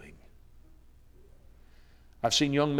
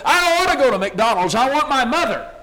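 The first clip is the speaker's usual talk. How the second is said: higher, louder desperate cry; boy's anguished protest; 13 semitones higher, 11 dB louder than usual. A narrator's reading. Boy refusing father, louder desperate plea. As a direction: cry out for mother.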